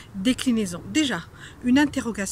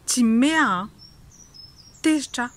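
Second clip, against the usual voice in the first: mock angry; 7 dB louder, slower than usual. Shown as a demonstration. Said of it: "je suis en colère".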